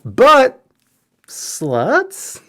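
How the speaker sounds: high, strained mock outrage; squeaky shocked question.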